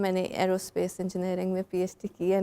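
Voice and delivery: rapid, quiet retelling; fast retold line. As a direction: rattle it off quickly. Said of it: "मैंने कहा".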